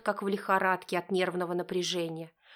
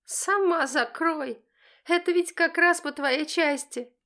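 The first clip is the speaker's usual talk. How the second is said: high, loud, slow cheeky comeback; contemptuous teenage jab; insolent retort; 8 semitones higher, 5 dB louder than usual. Acted. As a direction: snap it right back at mom. Daughter retorting to mother.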